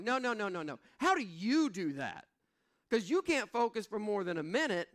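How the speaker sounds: lightly voiced cheeky kids; imitating kids. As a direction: tease dad like a cheeky son. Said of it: "they're like".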